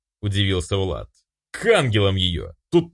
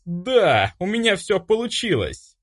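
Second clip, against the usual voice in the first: inner victory cry, held back in volume; triumphant cry; 9 semitones higher than usual. Pretend. Empress back in the palace, exulting over her success, higher and held in. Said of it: "Так и хотелось закричать".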